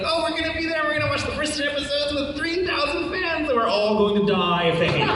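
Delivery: high, breathless mock panic before the premiere; panicked excitement. Cast members fretting before the premiere, high mock panic. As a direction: squeal it like the whole cast is terrified.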